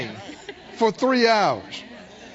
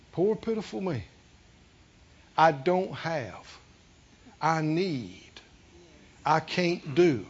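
softer, lower self-pitying whine; whining; 6 semitones lower, 5 dB quieter than usual. Retold or imitated. Pastor imitating a complainer feeling sorry for themselves, soft whine. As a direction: mope like nobody has it worse. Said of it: "as long as you're whining".

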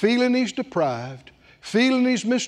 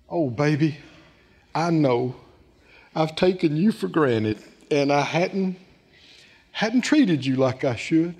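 mock tender father; 3 semitones lower than usual. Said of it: "The father said to him".

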